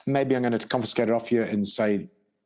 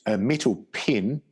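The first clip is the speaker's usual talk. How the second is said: pen said like pin in Kiwi; New Zealand vowel in pen; Kiwi accent; slower than usual. Real, not acted. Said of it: "my Kiwi accent is spelled P E N".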